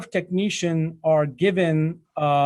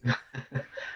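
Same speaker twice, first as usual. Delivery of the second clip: soft chuckle; 5 semitones lower, 10 dB quieter than usual. Real, not acted. Laughs at his own wording.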